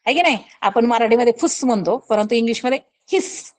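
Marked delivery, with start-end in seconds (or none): none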